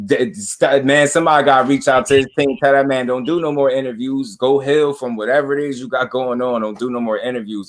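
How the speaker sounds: trying not to laugh while talking; words pushed out through a suppressed laugh; holding back laughter. Real, not acted. Commentator begging a fighter's team to stop his interviews, holding back laughter. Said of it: "I'm trying not to laugh".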